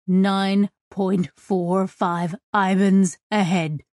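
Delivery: slow, strained coordinates; effortful reading, word by word; gasped readout. Acted. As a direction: gasp out each number slowly. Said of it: "Ohan gasped".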